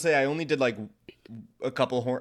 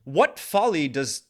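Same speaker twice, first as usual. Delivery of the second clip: mock old English accent; 3 dB louder, slower than usual. Shown as a demonstration. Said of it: "Should I do an accent?".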